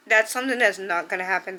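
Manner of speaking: a little emotional, pushing through fast; holding back tears as she says it; choked up. Real, not acted. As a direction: voice catching with real emotion. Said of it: "Sorry, I got a little bit emotional".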